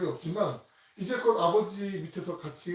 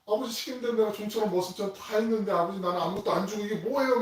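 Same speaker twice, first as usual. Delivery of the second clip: mildly raised, protesting; a son complaining to his father, a touch heated; older son confronting his father with a hint of anger; angry demand; 6 semitones higher, 4 dB louder than usual. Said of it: "막 따진 듯이 이렇게 분노를 막 발하는 거죠".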